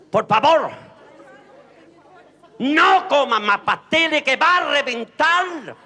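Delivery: father begging son to stop eating; loud scolding father. Acted. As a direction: plead loudly and slowly.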